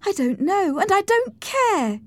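high-pitched, petulant retort; defiant dismissal. Acted. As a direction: brush the question off hotly. Cathy dismisses Nelly's question.

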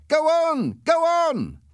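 high, loud urging; excited shout. A narrator's reading. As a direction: yell to spur the driver on. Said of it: "my passenger shouted".

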